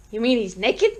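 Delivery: polite disbelief, rising at the end; politely incredulous. Acted. Police sergeant querying a caller about a naked man, politely incredulous. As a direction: check it with restrained incredulity. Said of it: "politely incredulous".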